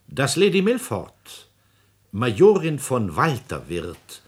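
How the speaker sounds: triumphant announcement. Acted. President springing the marriage news on the marshal. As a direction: savour dropping the news.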